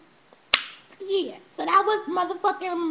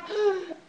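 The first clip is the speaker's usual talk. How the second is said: short acted gasp of shock; 3 semitones higher, 3 dB quieter than usual. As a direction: gasp as if stunned. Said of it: "shocked, like".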